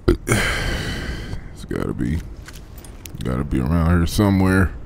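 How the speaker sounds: hiccuping through the words; hiccups. Real, not acted. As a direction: talk between hiccups. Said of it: "got the hiccups, man".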